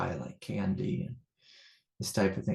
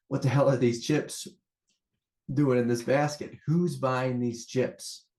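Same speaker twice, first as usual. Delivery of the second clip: higher-pitched mock-outraged holler; playful retold yell; 4 semitones higher than usual. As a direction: holler it like a riled-up dad telling a story. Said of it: "I hoot and holler and yell back".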